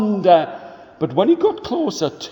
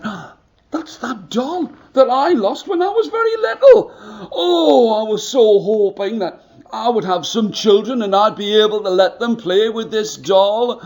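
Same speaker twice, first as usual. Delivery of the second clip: put-on high, laughing old woman voice; an old woman's tearful delight; 3 semitones higher than usual. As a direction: gasp with joy at the lost doll. Old woman finds lost doll.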